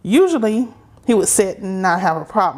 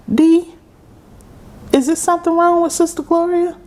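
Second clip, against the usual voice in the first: alarmed call; 11 semitones higher, 4 dB louder than usual. Retold or imitated. Sister Betty alarmed, calls to dad.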